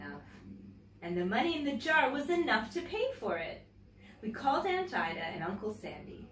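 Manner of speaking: gentle, clear read-aloud storytelling voice; story narration. Acted. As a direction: read it like a picture book to children. Reads a picture book aloud.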